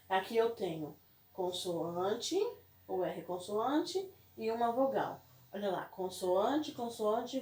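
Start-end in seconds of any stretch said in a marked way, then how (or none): none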